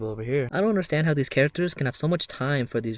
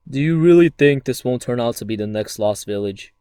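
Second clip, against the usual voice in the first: scolding colleague; 7 dB louder than usual. Acted. Acted skit, scolding a colleague.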